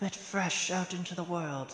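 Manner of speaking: soft, high-pitched half-whispered voice. Game master voicing a character leaning over to a player's character, half-whispering. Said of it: "and whispers".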